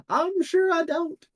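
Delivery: high, slow, knowing shopkeeper quip; a high, slow, wry merchant aside; dry quip. Acted. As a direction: stretch it out, amused and unwilling to hear. Ross's dry reply.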